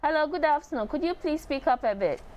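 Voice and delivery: high-pitched, polite hail down the phone; calling out. Real, not acted. Host asking a caller to speak up, calling out. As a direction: make yourself heard on a bad line.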